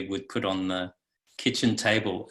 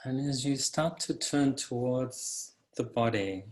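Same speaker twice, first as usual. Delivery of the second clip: calm, unhurried meditation guide; guided meditation. Acted. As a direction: guide listeners into the body, leaving long pauses.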